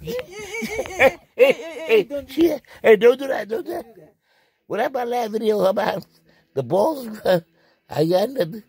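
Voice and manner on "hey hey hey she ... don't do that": high, loud panicked hey hey; loud frantic protest; frantic pleading. Acted. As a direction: beg her to stop, voice up high. Begging her to stop.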